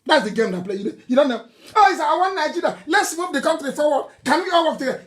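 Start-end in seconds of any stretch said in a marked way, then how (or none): 1.8-5.0 higher, fast, mocking sing-song of a politician's slogan; mock-sincere unity slogan; mocking quote. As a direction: parody the slogan to show it's a lie. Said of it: "It's a lie".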